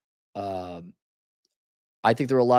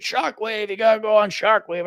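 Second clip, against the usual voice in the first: higher, eager urging; excited raving; 8 semitones higher than usual. Acted. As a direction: gush as if pushing friends onto a ride. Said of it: "There's no excitement or enthusiasm".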